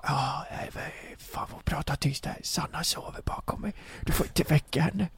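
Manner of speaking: very soft, near-whispered mimicry; imitated hushed talk. Friend warning not to wake Sanna, imitated whisper. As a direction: keep your voice right down, secretive. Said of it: "han pratar ju så här".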